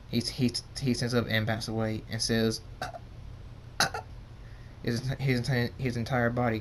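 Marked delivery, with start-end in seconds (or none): 2.8-4.0 brief choked-off "ah" sounds; halting bursts of "ah"; short gasps. A narrator's reading. Character backs away in trouble.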